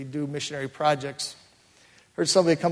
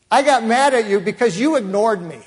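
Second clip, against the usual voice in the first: higher and louder, a retold hurt outburst; upset confession; 7 semitones higher, 8 dB louder than usual. Woman confessing to the pastor, hurt and raised. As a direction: let the grievance burst out.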